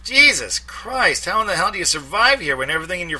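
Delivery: high, loud, dragged-out exclamation; disgusted Mike. A narrator's reading. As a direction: gripe about the empty fridge. Mike at the fridge.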